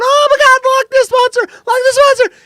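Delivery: high, loud mock panic scream; hammed-up squeal of alarm; freaking out. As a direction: imitate hysterical onlookers shrieking. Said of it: "they're freaking out".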